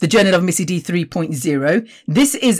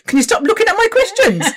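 giggly exasperation; laughing; 13 semitones higher than usual. Real, not acted. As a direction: laugh while scolding.

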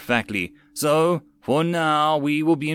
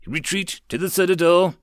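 commanding order; 6 semitones higher, 3 dB louder than usual. A narrator's reading. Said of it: "Titania ordered".

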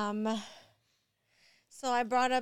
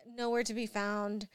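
ordinary talk, nothing marked

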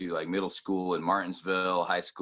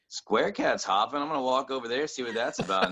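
excited; 7 semitones higher than usual. Retold or imitated. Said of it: "I was like".

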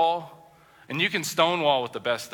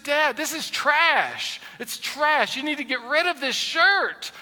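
higher, slow, lightly voiced child; mock kids' verdict; 11 semitones higher, slower than usual. Preacher voices his kids calling the shirt trash, lightly childlike. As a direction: kid voice, drawn out. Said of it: "They just said".

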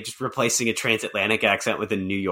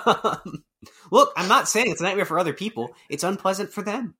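put-on raised-pitch New Jersey accent; 8 semitones higher than usual. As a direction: talk like a Jersey guy on a rant. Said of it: "So what would that look like?".

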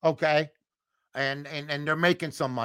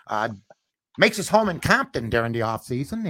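1950s announcer voice; 3 semitones lower than usual. Shown as a demonstration. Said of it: "in my nineteen fifties voice".

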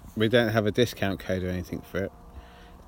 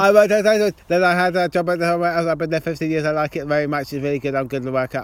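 nervous interviewee; 4 semitones higher, 4 dB louder than usual. Pretend. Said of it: "your interview people".

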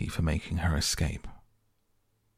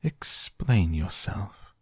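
stern; slower than usual. Acted. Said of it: "said the caterpillar sternly".

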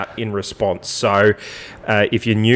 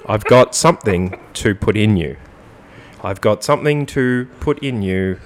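deadpan lyric recital. Acted. Host repeating suggestive lyrics to Jimmy, deliberate deadpan. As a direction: space out each word of the lyric.

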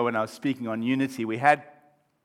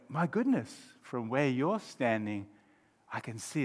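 hushed realisation; 2 semitones lower, 8 dB quieter than usual. Acted. Friend standing in other's shoes, hushed realisation. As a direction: let it dawn on you quietly.

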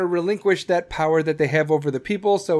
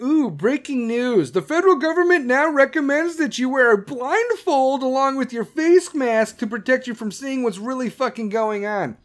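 mock news anchor; 5 semitones higher than usual. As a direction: ham up a breathless anchor. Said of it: "dumb shit like".

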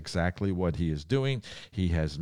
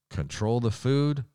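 emphatic slogan; 7 semitones higher than usual. Acted. Punchline slogan, loud high.

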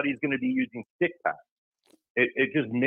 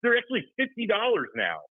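higher-pitched, exasperated rant; pissed off; 4 semitones higher than usual. Real, not acted. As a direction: rant as if you're fed up. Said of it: "Drew, why do you sound pissed?".

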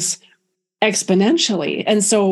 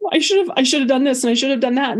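mock blubbering; 5 semitones higher, faster than usual. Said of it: "I would just be a blubbering idiot".

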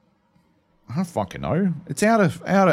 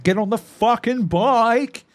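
retold impatient yell; 11 semitones higher, 4 dB louder, slower than usual. Gamer hurrying a teammate onto the bike, retold impatient yell. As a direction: pitch climbing high into an exasperated shout.

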